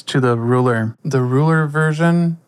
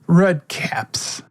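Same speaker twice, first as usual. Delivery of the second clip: whisper; 2 semitones higher than usual. Acted. GM whispers the creature's name.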